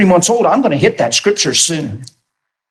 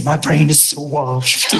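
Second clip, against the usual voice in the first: slow, low deadpan boast; mock-proud reply to needle coworkers; deadpan tease; 6 semitones lower, 4 dB quieter, slower than usual. To teasing coworkers, a slow deadpan brag.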